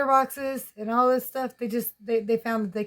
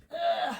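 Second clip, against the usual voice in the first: high grunt of lifting; effort grunt; 8 semitones higher than usual. Real, not acted. Woman picks up her chunky puppy, grunting with effort. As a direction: grunt as you heave up a weight.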